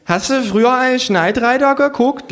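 high kangaroo voice, words slurred; slurring kangaroo. Acted. Kangaroo asking narrator about Knight Rider, high slurred. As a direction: slur it like a drunk kangaroo. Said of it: "lallt das Känguru".

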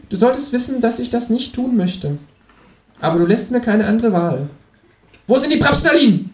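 high-pitched mock threat; menacing kangaroo. Kangaroo about to torture narrator with puns, high menace.

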